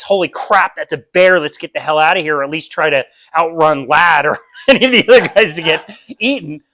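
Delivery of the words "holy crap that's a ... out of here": quick startled alarm at a bear; mock panic. Guest spotting a bear, mock panicked alarm. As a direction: act out a hammed-up fright. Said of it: "a high stress".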